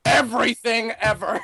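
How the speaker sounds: booming mock-epic announcement; Leonard Nimoy Xehanort. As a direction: ham up the all-knowing villain explaining everything. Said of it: "Leonard Nimoy Xehanort coming in and be like".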